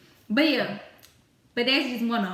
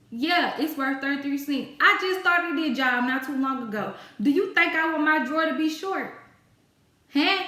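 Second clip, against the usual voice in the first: mock sassy comeback; 3 semitones higher than usual. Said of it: "What do you think I'm gonna tell you".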